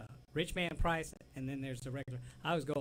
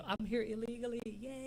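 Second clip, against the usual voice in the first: gleeful quote; 9 semitones higher than usual. Retold or imitated. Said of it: "Oh, I was laughing".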